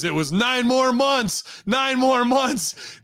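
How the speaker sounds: slow, high, stretched "months"; stress on months. Pretend. Sarcastic correction, drawn out.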